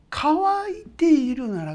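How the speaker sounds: 乾いているなら said slow, high and loud; stress on 乾いているなら. Shown as a demonstration. 牧師が会衆に条件を強調する、乾いているならをゆっくり強く. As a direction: lean hard on 乾いているなら, slowly. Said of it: "ってこれです。".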